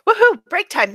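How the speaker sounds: high, bright woohoo; excited cheer. Real, not acted. Cheering for the break.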